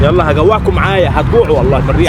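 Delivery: wind on mic. Real, not acted. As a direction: voice muffled by wind. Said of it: "صوتك مش واضح هنا".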